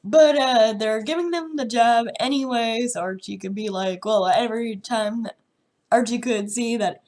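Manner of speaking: sick, nasal and congested; blocked nose. Real, not acted. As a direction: talk through a stuffed-up nose with a cold. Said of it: "if I sound nasally and congested".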